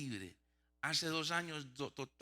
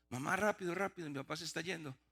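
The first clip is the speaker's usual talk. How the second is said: higher-pitched retold cry for help; urgent calling out; 4 semitones higher than usual. Son calling mother in the store, urgently. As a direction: mimic an alarmed call, easing off.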